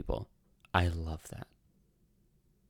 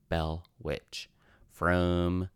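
slow, drawn-out mock Southern accent; Southern accent try; much slower than usual. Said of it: "is that a good Southern accent?".

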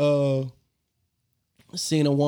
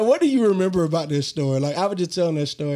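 ordinary talk

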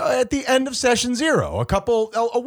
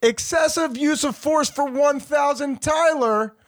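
slow, higher game-show host reading back the pick; quiz host voice; 6 semitones higher, slower than usual. Pretend.

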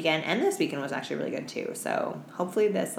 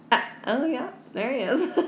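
mock-excited; 8 semitones higher than usual. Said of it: "and I was like".

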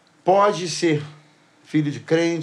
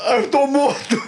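mock panic; 8 semitones higher than usual. Attendant imagines being killed.

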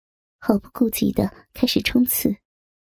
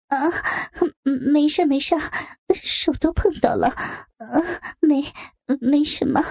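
higher, breathy and halting; flustered woman; 4 semitones higher than usual. Acted. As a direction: stammer out a cover story.

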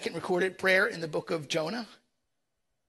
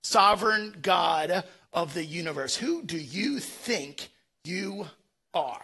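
stern God. Retold or imitated. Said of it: "God is saying".

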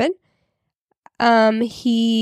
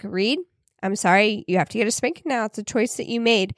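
calm, easygoing dad; 3 dB quieter than usual. Retold or imitated. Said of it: "so cool, easygoing".

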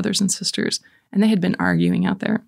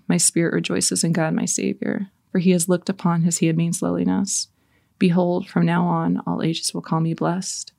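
prayer. Acted. Leading the viewers in prayer, recited reverently.

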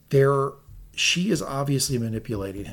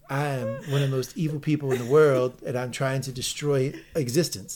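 wrestler promo voice. Pretend. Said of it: "Now you're Dusty Rhodes".

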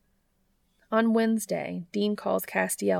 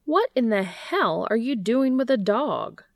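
higher and louder, stunned disbelief; incredulous outburst; 5 semitones higher, 4 dB louder than usual. Acted. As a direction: blurt it, mouth still gaping. Gabriel gaping at the dog.

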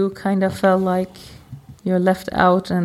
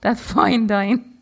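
slow repeat; much slower than usual. Real, not acted. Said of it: "The what?".

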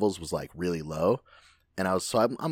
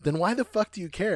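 buddy's retort; 11 semitones higher than usual. Retold or imitated. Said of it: "he was like".

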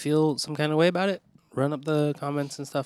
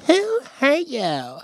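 higher, louder, slow announcement; with more oomph; 13 semitones higher, 7 dB louder, much slower than usual. Shown as a demonstration. Cohost asked for more oomph, slow, higher, louder title. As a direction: boom out the segment title. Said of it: "You have to say it with more oomph".

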